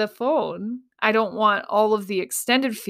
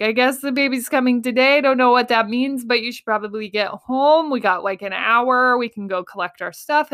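higher, louder, fast rushed news; retold tearful rush; 4 semitones higher, 3 dB louder than usual. Calling husband, flustered rushed news. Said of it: "calling my husband crying".

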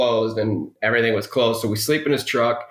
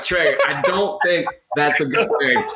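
nervous laugh on the warning; half-laughing retold worry; laughing alarm; 3 semitones higher than usual. Warning Trey about the flooding boat, with a laugh.

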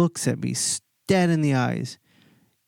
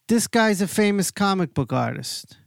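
higher mock announcement; Cheech announcing; 7 semitones higher than usual. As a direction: lightly voice Cheech showing him off, pitched up.

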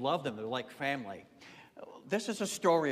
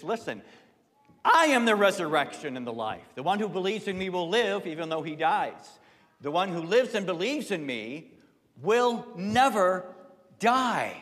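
preached declaration; 4 semitones higher, 5 dB louder than usual. Acted. Preacher voices Jesus' I am declaration.

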